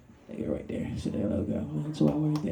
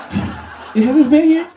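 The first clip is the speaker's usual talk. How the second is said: higher, very slow, drawn-out wonder; mock surprise; 10 semitones higher, 7 dB louder, much slower than usual. Comic at the venue marveling, slow mock surprise. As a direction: stretch it out, amazed.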